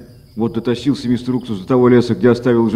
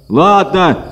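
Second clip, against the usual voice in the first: higher, glad quick yes; eager exclaim; 5 semitones higher, 3 dB louder than usual. A narrator's reading. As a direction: jump at the trade. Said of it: "воскликнул мистер Уксус". (радостное восклицание)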